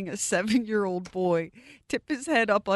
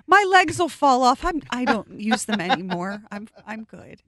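higher, self-deprecating protest trailing to a murmur; meek brother; 4 semitones higher than usual. Acted. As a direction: play the martyr brother, brushing off help. S1 voicing brother declining help.

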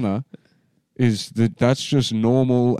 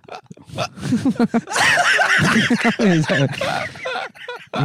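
laughing shout; 12 semitones higher than usual. Real, not acted. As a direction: howl with laughter. Laughing at own bit.

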